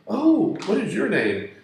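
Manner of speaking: high, sugary come-on. Retold or imitated. Dancer coos at the angel in a high flirty voice. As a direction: pitch way up to play the flirting dancer. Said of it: "one of the little hotties comes up and says".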